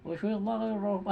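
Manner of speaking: quick mock recitation, words run together; rushed careless recitation. Shown as a demonstration. Teacher mimicking a sloppy Quran reader, rushed and unclear. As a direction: gabble it as a bad example. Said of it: "Ayo ngosom nih baca Qurannya".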